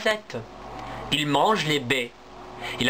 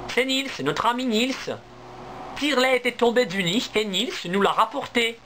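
a touch higher, eager little squirrels; lightly voiced baby squirrels; 7 semitones higher than usual. Baby squirrels explain to their mother, lightly higher.

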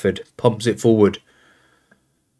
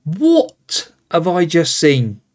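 stunned disbelief; 5 semitones higher, slower than usual. Real, not acted. Disbelief at a goal conceded.

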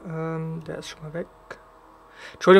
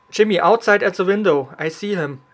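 urgent loud callout; calling out; 4 dB louder than usual. Real, not acted. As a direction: call it out to the teammate. Calls out to a teammate in game.

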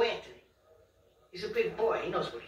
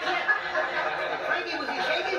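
laughing; 4 semitones higher, slower than usual. Real, not acted. Laughing after the prank.

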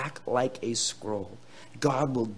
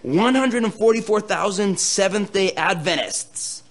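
mock misreading; 7 semitones higher, 6 dB louder than usual. Shown as a demonstration. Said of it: "Okay, it doesn't say that".

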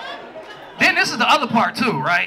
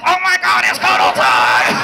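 mock eager shout; 12 semitones lower, 3 dB louder, slower than usual. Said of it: "you like this".

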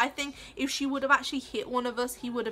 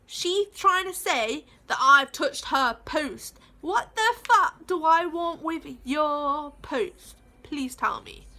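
retold angry reply; 3 semitones higher, 4 dB louder, slower than usual. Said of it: "I was like".

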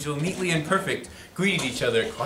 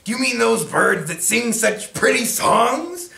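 cheery; 10 semitones higher, 4 dB louder than usual. Acted. Tacky asks hunters.

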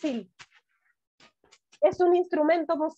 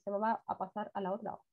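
ordinary talk, nothing marked

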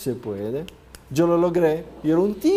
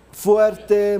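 emphatic shout; 4 semitones higher, 6 dB louder than usual. Shown as a demonstration. Coach asks the room's confidence, answering loudly. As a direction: call out the word Fuerte loud and strong. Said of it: "¿cuál es el suyo?".

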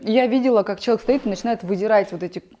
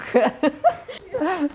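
laughing; 9 semitones higher than usual. Real, not acted. Laughs at her own joke.

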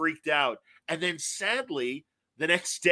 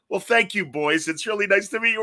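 put-on gracious old gentleman; 5 semitones higher, 3 dB louder than usual. Old writer voiced in story.

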